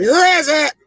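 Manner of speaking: high squawk of a parrot; a mock parrot calling out at the door; squawky parrot. The parrot asks again.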